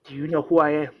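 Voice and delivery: restrained first demand; mild mock yell, held back; retold scream. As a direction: open the confrontation before the full shout. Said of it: "Rick is screaming".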